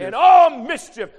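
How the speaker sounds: booming, drawn-out repeat of the verse; shouted echo. Acted. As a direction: shout it back to the church slowly. Preacher echoing the verse at full force.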